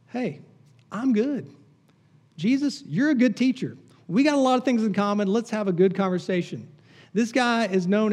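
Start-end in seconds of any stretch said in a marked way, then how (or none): 0.1-6.7 put-on smug young man. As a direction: sound pleased with yourself, lightly voiced. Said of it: "he assumes".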